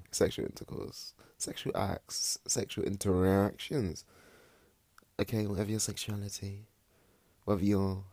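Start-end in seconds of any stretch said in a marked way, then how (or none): 0.1-4.0 breathless giggly whisper; giggling. Real, not acted. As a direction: laugh it out under breath. Giggly naming of topic.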